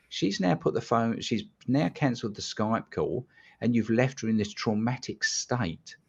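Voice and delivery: retold indignant telling-off, pitch jumping up; retold fuming. Hypnotist confronting caller over a girl left in trauma, retold indignation. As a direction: take him to task, mildly incensed. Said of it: "I was absolutely fuming".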